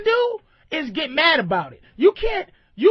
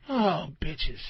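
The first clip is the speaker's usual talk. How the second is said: deep drawn-out bitches; 10 semitones lower, 6 dB quieter than usual. Shown as a demonstration. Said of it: "here's the different inflections of bitch".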